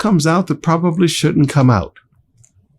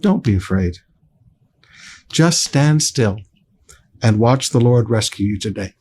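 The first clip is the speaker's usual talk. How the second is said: calm reassurance; 5 semitones lower than usual. Acted. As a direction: say it gently to settle them. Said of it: "So he calms them down".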